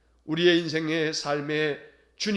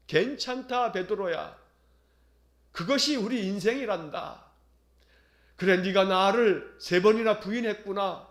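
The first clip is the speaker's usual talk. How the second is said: gentle comfort. Retold or imitated. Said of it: "따뜻한 시선으로".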